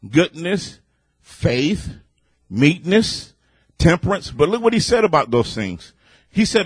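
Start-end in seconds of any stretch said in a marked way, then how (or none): none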